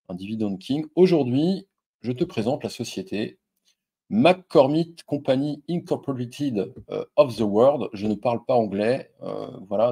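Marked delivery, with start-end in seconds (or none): 4.1-7.9 slow English company name in a heavy French accent; reading out an English name in his French accent. Real, not acted. French YouTuber stumbles over the US company name in a French accent. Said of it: "tu pardonneras mon accent".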